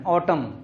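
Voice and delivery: ऑटम ending on m, n dropped; silent n. Shown as a demonstration. Teacher reads autumn for pupils, silent n. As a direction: say ऑटम with no n at the end. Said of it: "तो एन silent हो जाता है".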